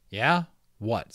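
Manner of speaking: eager rising Yeah, then a quick What; hopeful. Acted. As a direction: lean in hoping for a gift. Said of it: "said Omri hopefully".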